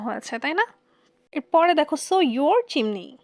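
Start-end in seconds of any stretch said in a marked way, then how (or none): 2.1-3.1 "so your chimney" drawn out word by word, slowly; slow poem reading. Shown as a demonstration. Teacher reads the line slowly for the class, slow and deliberate. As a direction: read the verse slowly to the class. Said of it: "এখানে কবিতার দৃষ্টিকোণটা দেখো".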